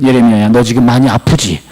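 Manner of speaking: low, gently asked concern; comforting God. Acted. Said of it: "그래, 내가 네 마음 안다".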